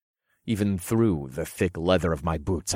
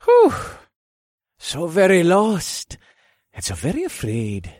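taunting monster; 11 semitones higher, 6 dB louder than usual. A narrator's reading. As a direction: savour their fear mockingly.

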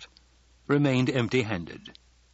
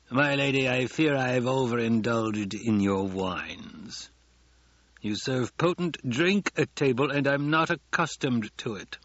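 drawn-out, strained courtesy from a banker; polite words, understated spite; veiled venom; 3 semitones higher than usual. Acted. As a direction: apologize with poison underneath. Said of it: "heard the venom beneath his tone".

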